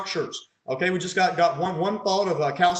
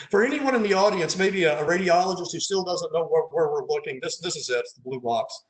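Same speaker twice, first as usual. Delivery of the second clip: dry, mock-helpful sarcasm aimed at radiologists; deadpan teasing sarcasm; sarcastic. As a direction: tease them with fake helpfulness. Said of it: "that was sarcasm".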